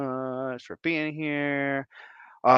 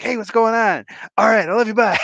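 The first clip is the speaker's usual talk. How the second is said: rushed brush-off; 10 semitones higher, 8 dB louder than usual. Retold or imitated. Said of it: "And I'm like".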